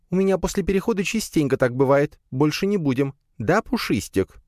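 put-on high spider girl, placating; squeaky spider making peace. Spider promises truce. (высокий примирительный голосок)

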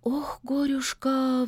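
slow sighing lament. A narrator's reading. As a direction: let it out on a sigh, slowly. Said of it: "вздохнула Любава". (медленно, со вздохом)

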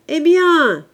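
high, loud impatient shout. A narrator's reading. Father calls his dawdling daughter, shouting. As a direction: yell it to hurry her up. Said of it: "cria le père".

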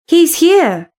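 mild excited cry of arrival; exclaiming. A narrator's reading. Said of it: "she exclaimed".

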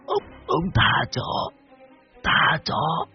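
spent, slow sobbing plea in a high voice; weeping. A narrator's reading. Dying man begging to be spared, weeping weakly. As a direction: gasp out the plea through sobs. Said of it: "mà khóc lóc".

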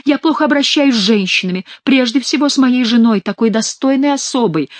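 hammed-up contrite admission; repenting as king. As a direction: confess plaintively as the mock king. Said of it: "каялся Шико от имени короля".

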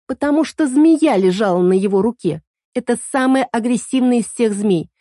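lightly voiced girl explaining in a rush; girl telling what she saw, lightly voiced; voiced young girl. Girl character voiced in story.

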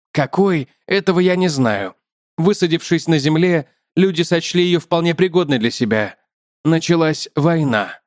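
chatty spider, lifted above the narration; talkative spider. Acted.

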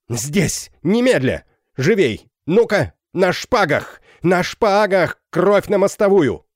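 громко, выше и выше; вызов на поединок, нарастая; гневный крик. A narrator's reading. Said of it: "он, заикаясь, ... крикнул". (капитан кричит, вызывая на шпагах)

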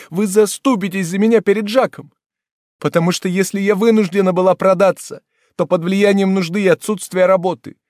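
frenzied, high and loud cry of despair; frantic outburst. Acted. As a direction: plead wildly to the whole room. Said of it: "в безумном порыве".

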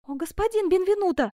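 high, loud, imploring exclamation; pleading and reproach. A narrator's reading. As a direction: cry out in plea and reproach. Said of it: "в голосе которой прозвучали и мольба".

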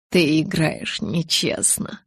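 slow, mild accusation; accusing. Acted. Edward accuses Bella of playing unfair, slow and mild. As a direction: accuse her, half teasing. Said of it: "обвинил он".

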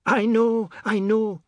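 high, loud, flustered repetition; alarmed cry. A narrator's reading. Wife hearing shouts from below, alarmed cry. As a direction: cry out on the way to the window.

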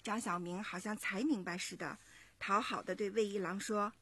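put-on lively storytelling to young listeners; story narration. A narrator's reading. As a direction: narrate clearly and expressively, like a children's story. 妈妈朗读故事旁白. (讲故事的旁白)

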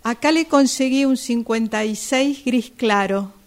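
loud call from the back of the shop. Acted. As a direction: shout it across the store to the fitting room. Shopgirl calling from the stockroom. (la vendedora grita desde el depósito)

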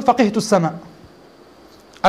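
فقهت السماء said very slowly, each word drawn out; slow drawn-out example. Shown as a demonstration. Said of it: "العرب لا تقول". (نطق بطيء ممدود لـ فقهت السماء)

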